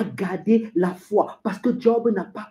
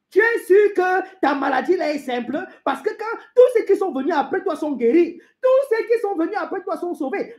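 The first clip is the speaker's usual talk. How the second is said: forceful preaching; 8 semitones higher, 3 dB louder than usual. Acted.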